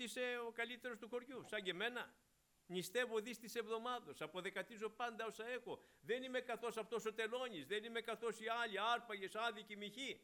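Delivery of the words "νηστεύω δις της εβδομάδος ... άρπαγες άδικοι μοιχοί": higher, self-satisfied Pharisee bragging; boastful Pharisee. Retold or imitated. Preacher mimics the Pharisee boasting before God, smug and higher. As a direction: puff up like a proud Pharisee listing his virtues. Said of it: "Τι είναι αυτό, φαρισαϊσμός".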